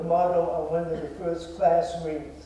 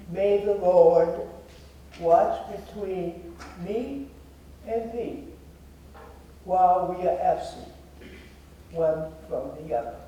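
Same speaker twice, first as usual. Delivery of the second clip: stately Bible verse, phrase by phrase; solemn scripture recital. Real, not acted. Repeats the motto as closing.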